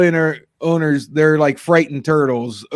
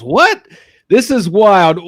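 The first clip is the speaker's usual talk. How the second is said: higher, mock-astonished exclamation; shocked reaction; 4 semitones higher, 5 dB louder, slower than usual. Host to co-host teasing a wild video, shocked. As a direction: react in disbelief, pitch jumping.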